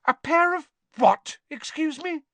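very high, outraged questions; indignant splutter. A narrator's reading. Hermione challenging Ron about trolls, indignantly. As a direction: splutter it out, scandalised. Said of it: "a splutter of indignation".

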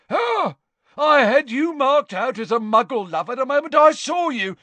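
high, loud sneer. A narrator's reading. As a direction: sneer it with contempt. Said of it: "sneered Gaunt".

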